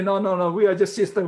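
acted-out, emphatic brushing-off; mock protest. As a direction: protest loudly on the sisters' behalf. Acts out sisters' self-dismissing protest.

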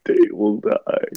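slow, breathy whisper of doom; whispered threat. Pretend. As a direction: whisper it menacingly. Menacing unvoiced threat.

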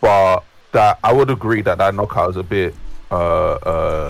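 glitchy call audio; words cutting in and out; radio breaking up. Real, not acted. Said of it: "you're breaking up a lot".

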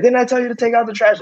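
high-pitched imitation of a nagging mother; scolding mom. Imagined mom at the door about the trash, mock scolding. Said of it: "And she's like".

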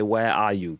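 talking with tongue stuck out. Shown as a demonstration. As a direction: say it with your tongue out. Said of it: "stick your tongue out and say".

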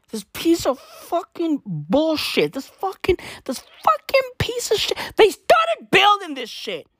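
high, strained angry yell; furious shout. Real, not acted. Ranting at Eskom over the unfinished power station, furious shout. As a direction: blow up at the broken power station.

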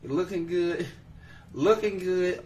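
high-pitched mocking quote; mocking echo. Host repeating Simone's reason back, mocking.

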